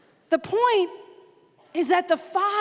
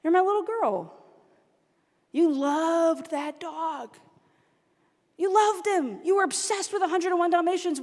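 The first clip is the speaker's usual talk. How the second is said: loving exasperation; 3 semitones higher than usual. Retold or imitated. Dad explaining the lie to his little girl, lovingly exasperated. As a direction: reason lovingly with a grown daughter. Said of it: "but also really lovingly".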